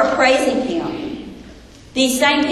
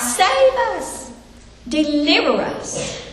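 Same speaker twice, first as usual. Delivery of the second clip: much higher, strained cry for rescue; crowd crying out; 7 semitones higher, slower than usual. Retold or imitated. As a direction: voice the crowd begging to be saved. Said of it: "crying out".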